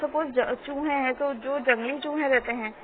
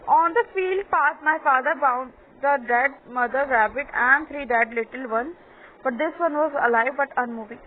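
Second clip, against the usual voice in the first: slow, measured reading aloud; story read-aloud; much slower than usual. A narrator's reading. Teacher reading a story to pupils, slow read-aloud. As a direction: read it out slowly, word by word.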